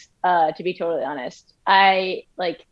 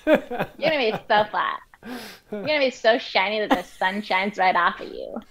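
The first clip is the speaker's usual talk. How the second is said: put-on Valley Girl voice; 2 semitones higher than usual. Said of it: "it has a Valley Girl voice".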